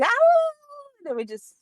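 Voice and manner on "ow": whining howl like a dog; drawn-out mock doggy howl; imitated dog whine. Owner mimicking her dog starting up, whining howl. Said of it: "she'll start whining".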